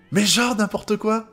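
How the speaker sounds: slow, high-pitched incredulity; amused disbelief. Real, not acted. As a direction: stretch it out, can't believe it. Réaction incrédule à la scène. (incrédulité, lente et aiguë)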